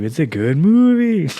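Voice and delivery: reviewer voice. Pretend. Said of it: "this is his movie review".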